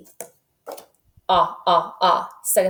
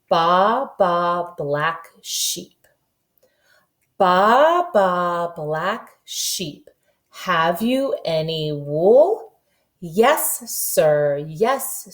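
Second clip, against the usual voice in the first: slow, sing-song nursery rhyme chant; sing-song rhyme recital; much slower than usual. Shown as a demonstration. Kindergarten teacher reciting a nursery rhyme slowly to the class.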